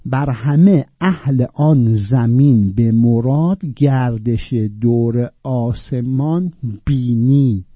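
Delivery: slow, drawn-out verse; poem recital. Shown as a demonstration. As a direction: recite slowly, stretching each word. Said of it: "recites verse slowly".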